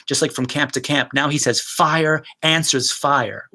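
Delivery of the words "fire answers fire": very slow, stress on answers; slow dramatic line; slow, weighty. Shown as a demonstration. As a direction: drop it in slowly, let answers ring.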